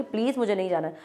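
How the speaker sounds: soft, gentle pleading; polite request. Shown as a demonstration. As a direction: ask nicely. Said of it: "request form में".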